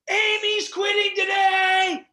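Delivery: high, drawn-out shout; screamed announcement. Retold or imitated. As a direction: yell it across a whole store. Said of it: "Scream across the store".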